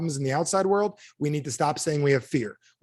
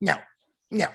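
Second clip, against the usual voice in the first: put-on petulant, bratty little kid voice; 4 semitones higher than usual. Leading a group exercise, showing how to say no like a bratty little kid. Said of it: "Just say it like a bratty little kid".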